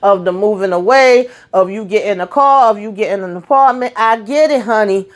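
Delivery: high, impassioned mama plea, no boo, no; heated motherly lecture to a TV character; pleading with Nina. Retold or imitated. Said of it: "I said".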